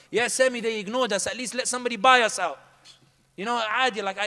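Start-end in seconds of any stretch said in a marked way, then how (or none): 0.1-2.6 auntie's loud plea. Retold or imitated. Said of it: "I was like".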